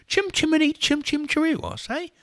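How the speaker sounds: loud, very high mock-British chant; terrible British accent. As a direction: belt it as a hammed-up Brit. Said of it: "My terrible, terrible accent".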